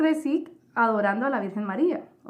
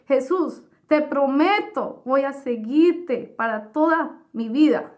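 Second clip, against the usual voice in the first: tearful vow; 3 semitones higher, 3 dB louder than usual. Retold or imitated. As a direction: beg and promise at once, a hint of crying. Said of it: "Y yo estaba llorando". (promesa suplicante, con un dejo de llanto)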